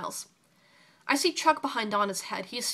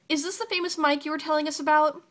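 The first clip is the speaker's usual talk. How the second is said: sweet; 6 semitones higher, 4 dB louder than usual. A narrator's reading. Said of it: "Donna asks sweetly".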